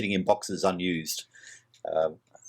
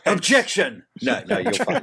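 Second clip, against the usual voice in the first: mock objection; 11 semitones higher, 3 dB louder than usual.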